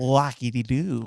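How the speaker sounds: low, quiet villain voice; a hint of a Tagalog Joker. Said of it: "sabihin mo yung wacky-di-do in Joker".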